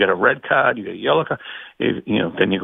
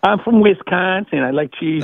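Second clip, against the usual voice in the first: put-on Wisconsin accent; 6 semitones higher than usual. Boston caller teasing the host, in a mild Wisconsin accent. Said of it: "A Boston guy doing a Wisconsin accent?".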